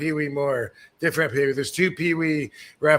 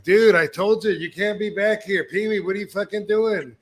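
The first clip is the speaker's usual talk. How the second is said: exasperated yell at the referee; angry scolding; 6 semitones higher than usual. Retold or imitated. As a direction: scold them as you kick them out. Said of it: "I'm like".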